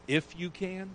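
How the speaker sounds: a hint of disbelief, pitch lifting on If; mildly incredulous echo; Jesus echoing the father, lightly incredulous. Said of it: "almost incredulously".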